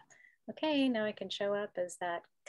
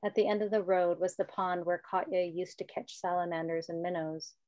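measured read-aloud with pauses between phrases; story narration. A narrator's reading. Author reading her children's book to the group, measured story narration. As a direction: read the story evenly, with understated character lines.

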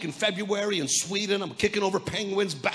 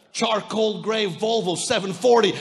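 triumphant proclamation; 9 dB louder than usual. Acted. Triumphant payoff of story.

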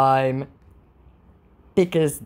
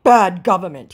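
whiny scammer excuse; mock scammer voice; 4 semitones higher, 7 dB louder than usual. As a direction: scammer blaming the economy, mocked. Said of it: "he says".

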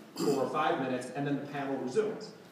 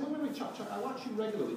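retold protest; 7 semitones higher, faster than usual. Retold pleading to Chuck backstage.

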